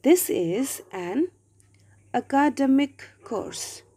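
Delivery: "academic" stressed on the second syllable, a-KA-demic; misplaced word stress. Shown as a demonstration. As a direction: say "academic" as uh-KAH-duh-mik. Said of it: "the error is in my pronunciation".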